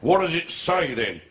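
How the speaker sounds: lightly voiced sergeant-major challenge; RSM policeman. Policeman tests bather on the sign, light sergeant-major voice. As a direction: press him as a hint of RSM. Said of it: "Used to be an R S M".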